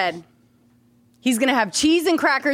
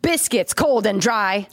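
mock slam poetry. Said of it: "you know what I'm doing".

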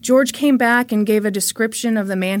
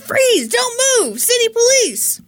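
police yell; 13 semitones higher than usual. Acted. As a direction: yell it like an arresting officer. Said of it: "Officer Tom yelled".

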